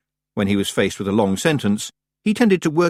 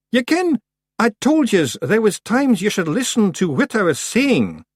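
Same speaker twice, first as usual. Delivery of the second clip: icy patience; 13 semitones higher, 4 dB louder than usual. Acted. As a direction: spell it out coldly. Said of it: "with icy patience".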